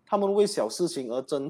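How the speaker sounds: 慢慢地把外遇和不诚实问题一字一字念出来; 强调"外遇"，放慢语速，像在划重点; slow pointed quote. Shown as a demonstration. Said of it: "我发现到这里有一个点哦". (主持人放慢语速，强调信里的重点)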